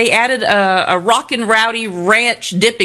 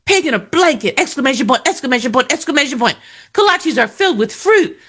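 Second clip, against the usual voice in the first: mock outrage; 4 semitones higher than usual. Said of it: "I mean, seriously".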